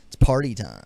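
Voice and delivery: shouted movie line, loud; party shout. Retold or imitated. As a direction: belt it out like a party host.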